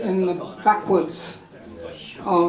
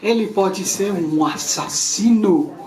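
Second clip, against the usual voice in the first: lightly voiced girl; 3 semitones higher than usual. Playmate refusing to ask the stranger, quick mock scoffing. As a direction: scoff at the crazy idea, fast. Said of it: "So she said to me".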